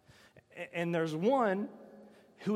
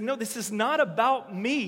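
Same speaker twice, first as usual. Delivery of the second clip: raised, louder emphatic correction; Jesus correcting the crowd; 4 semitones higher, 6 dB louder than usual. Retold or imitated. Jesus tells the crowd the voice isn't for him, emphatic. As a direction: set them straight, higher and louder. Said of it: "He's like".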